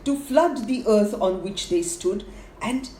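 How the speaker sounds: animated fable narration, drawing out the scheme; verse storytelling. A narrator's reading. Narrator passing on a bird's rumour, expressive verse storytelling. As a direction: tell the rumour as lilting rhymed story.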